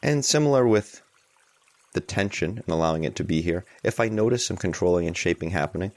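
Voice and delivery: unhurried guidance with long pauses; guided meditation. Real, not acted. Teacher guiding a group to allow tension, unhurried guided meditation. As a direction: ease listeners into it, leaving space between phrases.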